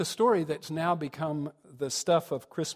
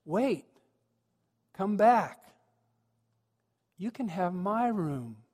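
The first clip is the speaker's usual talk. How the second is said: higher, eager calling after them; big-smile call; 4 semitones higher, slower than usual. Acted. Boy innkeeper calling Mary and Joseph back, big smile. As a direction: call them back, then slow down on the offer. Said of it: "he gets this big smile, and he goes".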